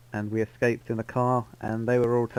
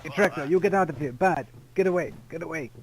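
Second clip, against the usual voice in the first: raised, higher yells to get him out; shouting at Tractor; 5 semitones higher than usual. Acted. Shooing Tractor out of the room.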